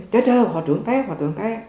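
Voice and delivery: high-pitched alarm call, fading on the repeat; retold shout for help. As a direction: cry out that the abbot has fallen. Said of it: "Cái tôi la lên".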